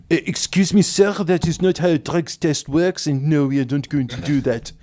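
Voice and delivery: lightly voiced officer, primly correcting; a stiff, polite officer refusing; prim policeman. Mocking the police's reply to the suspect, primly.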